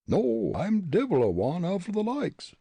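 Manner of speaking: high, indignant Irish brogue; getting angry. A narrator's reading. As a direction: protest hotly as an Irishman. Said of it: "getting angry".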